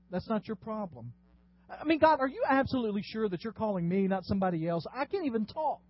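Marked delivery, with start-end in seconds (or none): 1.7-5.8 a nervous Moses begging God to pick someone else; flustered Moses. Acted. Pastor voicing Moses as a flustered, stammering pleader.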